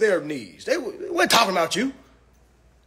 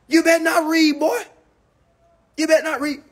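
louder, higher taunting threat; mock threat; 6 semitones higher, 4 dB louder than usual. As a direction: bark it out like a bully. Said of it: "walking around as if the Klan".

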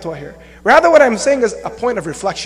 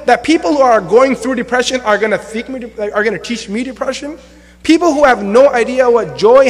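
indignant retort. Retold or imitated. Retold indignant reply to critics.

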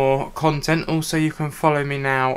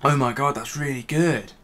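bottle held at chin; just after a sip. Real, not acted. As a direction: wet mouth after drinking. Seen 0: drank at -5 to -1, bottle still at chin while talking.

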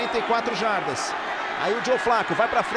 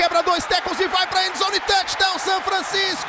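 touchdown call; 5 semitones higher than usual. Real, not acted. Touchdown called live.

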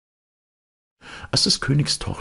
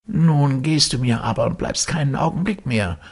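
stern Death; 12 semitones higher than usual. Acted. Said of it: "sprach der Tod ernst".

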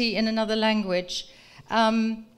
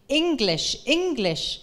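mild mock shout; 4 semitones higher than usual. A narrator's reading. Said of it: "schreeuwt hij".

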